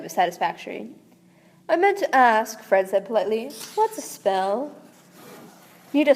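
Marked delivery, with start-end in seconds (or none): 1.7-2.6 a lightly swooping, theatrical star voice, a hint of Snape; swoopy star voice. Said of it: "it gets the swoopy voice". 3.7-4.7 a lightly swooping, theatrical star voice, a hint of Snape; swoopy star voice. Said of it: "it gets the swoopy voice".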